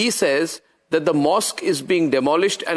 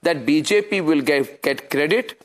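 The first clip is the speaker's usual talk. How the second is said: low-pitched, deliberate explanation; measured, low anchor's aside; confiding to viewers; 4 semitones lower than usual. Real, not acted. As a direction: drop the pitch and lay it out for the viewers.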